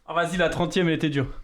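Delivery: breathless after push-ups; panting between words; out of breath. Real, not acted. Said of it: "Je suis essoufflé".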